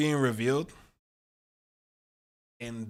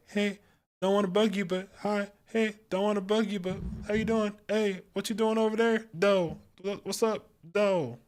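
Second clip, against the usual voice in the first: eager friend; 8 semitones higher than usual. Acted.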